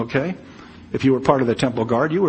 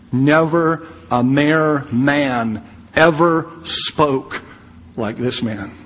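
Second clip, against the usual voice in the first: slow reverent hush; much slower than usual. Acted. Preacher's awed repetition of the verse.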